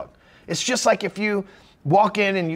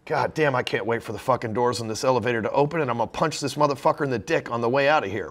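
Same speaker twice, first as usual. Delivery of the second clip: annoyed stranger; 7 semitones lower than usual. Retold or imitated. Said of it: "They'd be like".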